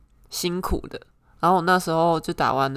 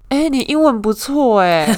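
laughing quote; 6 semitones higher, 5 dB louder than usual. Retold or imitated. Retelling reporter's praise, laughing.

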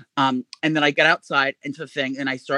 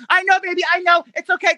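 fake soothing mom; 13 semitones higher than usual. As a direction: hush an imaginary crying daughter. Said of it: "I'm still in the character".

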